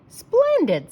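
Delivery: very high, loud delighted cry; delighted exclaim. A narrator's reading. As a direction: burst out with joy. Mary delighted with trained dogs.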